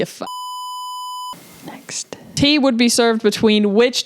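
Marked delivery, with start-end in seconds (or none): 0.0-2.1 quick hushed whisper. Real, not acted. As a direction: whisper it under your breath. Swallowing a swear word.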